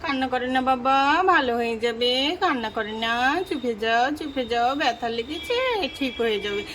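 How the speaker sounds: mother calming her crying son; soothing mother. Acted. Mother soothing hurt child.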